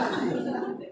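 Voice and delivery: soft, breathy little laugh; short chuckle. Real, not acted. Boss telling audience about his late driver, soft chuckle. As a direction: chuckle softly at your own story.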